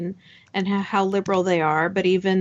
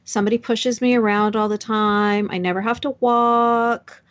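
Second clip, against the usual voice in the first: mock-delighted, stretching the last words; lightly hammed-up gushing over a silly perk; gushing wheelchair user; 2 semitones higher than usual. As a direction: parody of a blissfully deluded person. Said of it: "think of somebody saying".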